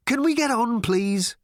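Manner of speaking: very high, exasperated plea; impatient. A narrator's reading. Ford interrupts the touching farewell, impatient. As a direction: break in, desperate to move along.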